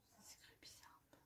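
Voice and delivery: under-the-breath whisper to herself; voiceless whispered remark; whispered aside. Real, not acted. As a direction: murmur it as a private aside. Quiet aside while reading labels.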